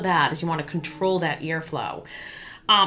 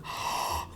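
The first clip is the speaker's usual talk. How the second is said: mouth inhale; 11 dB quieter than usual. Shown as a demonstration. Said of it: "breathe in through our mouth".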